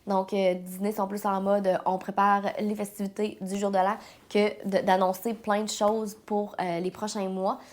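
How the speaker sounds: stuffy, congested head-cold voice; blocked nose. Real, not acted. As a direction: talk through a blocked nose. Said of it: "je parle beaucoup du nez aujourd'hui".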